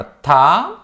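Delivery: long, aspirated "థా"; aspirated second tha. Shown as a demonstration. Teacher showing learners the second tha, aspirated "థా". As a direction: say "థా" drawn out with a breathy th. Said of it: "రెండవ థా అనమాట".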